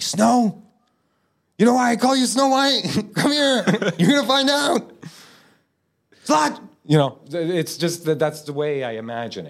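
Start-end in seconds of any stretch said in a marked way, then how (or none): 0.0-6.6 high, loud leering predator voice with laughs; creepy Harvey Weinstein. Retold or imitated. Imagined Weinstein leering at Snow White, hammed-up creep. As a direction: leer and cackle like a sleazy mogul. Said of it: "more like Harvey Weinstein".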